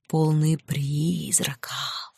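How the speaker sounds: very slow, whispery spook voice; drawn-out, eerie whispered wail; mock ghostly howl. A narrator's reading. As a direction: draw the words out like a wailing ghost to scare friends. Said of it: "Подражая нечисти, провыла девушка".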